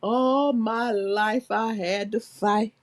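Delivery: very slow, low, weary declaration; hammed-up, slow movie speech; mock dramatic quote. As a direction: drag out every word like a film monologue. Acting out a famous movie line.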